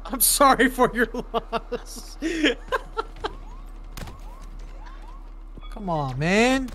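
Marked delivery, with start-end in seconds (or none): 0.0-2.2 laughing mock condolence. Mocking repeat, laughing. 2.2-5.6 high-pitched laugh. Real, not acted. High laugh after mock line.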